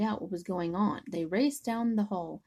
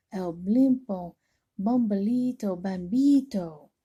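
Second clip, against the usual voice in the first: louder, slow, ominous naming; dramatic; 5 dB louder than usual. Acted. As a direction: announce each name with dread. Dogs dramatically name the villain.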